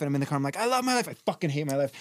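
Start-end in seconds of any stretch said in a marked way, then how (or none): 0.6-1.1 high, forced cheer in retelling; mock-rousing car shout; back-and-forth affirmation. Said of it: "I'm going back and forth". 1.1-1.9 dropped to usual pitch, bitter counter; grumbled comeback to own affirmation; back-and-forth retort. Retold or imitated. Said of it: "I'm going back and forth".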